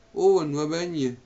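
high, loud searching call. A narrator's reading. Margaret looks for Owen from bed, calling out. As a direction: call his name loudly, pitch up. Margaret shouts for her husband.

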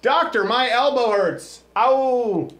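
mock patient. Acting as a patient to a doctor.

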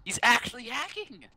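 high, loud, slow mock outrage; excited accusation. Real, not acted. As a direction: cry it out like you caught a cheater.

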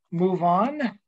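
mock German accent on the name. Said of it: "use the German accent for that".

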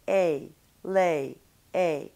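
"A, lay" gliding from A to E; gliding English vowel shown for the mirror; diphthong demo. Shown as a demonstration. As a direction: let the jaw slide through "lay". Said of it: "your jaw is moving between the vowel sound A".

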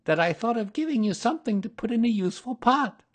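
high, quick little piglet voice; tiny, pleased storybook animal; happy Piglet. A narrator's reading. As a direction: squeak it out happily. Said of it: "said Piglet happily".

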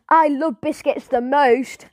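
slow, drawn-out mock shout. Marcus calling out to the owner, mock shout. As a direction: call it out across the group. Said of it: "Marcus shouts".

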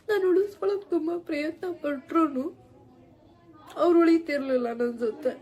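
words forced out through sobs; crying. Real, not acted. Apologizing to her viewers about friends leaving, crying. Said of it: "ಆದ್ರೂ ಕಣ್ಣೀರ್ ಬರ್ತಿದೆ".

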